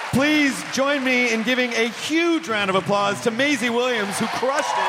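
big hype introduction; announcer shout. Real, not acted. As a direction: call her name to the crowd. Announcing guest to applause.

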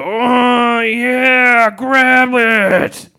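high, loud eager shout; high, loud ghost cheering him on; ghostly voice shouting. Acted. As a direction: shout it out like an excited spirit. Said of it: "he heard another voice go".

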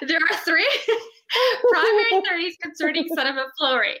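quoting a lecture while laughing; laughing through the words; laughing through a quote. Retold or imitated. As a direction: read it off the cue card, cracking up. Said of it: "he's like".

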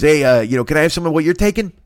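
lightly voiced neighbor asking for your pills; neighbor Lou. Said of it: "He goes".

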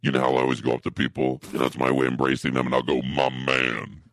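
fast, eager telling; quick chatty husband telling; rushed storyteller. Acted. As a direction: rattle it off eager to get to the point. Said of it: "Here's this guy telling the story".

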